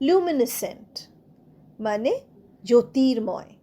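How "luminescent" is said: Luminescent ending in "sent", no K; silent C. Shown as a demonstration. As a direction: teach Luminescent with SC as a single S. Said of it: "সি কিন্তু উচ্চারণ হচ্ছে না".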